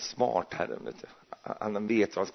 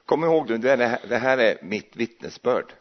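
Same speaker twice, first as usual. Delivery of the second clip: emphatic reminder; 3 semitones higher, 5 dB louder than usual. Real, not acted. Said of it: "emphatic reminder".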